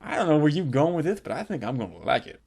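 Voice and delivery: low, soft, quick coo; intrigued purr. Retold or imitated. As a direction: tease him on, hushed. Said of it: "She's like".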